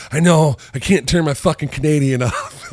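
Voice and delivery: high, loud, laughing through it; laughing admission. Retold or imitated. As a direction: confess it while cracking up. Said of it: "she's like".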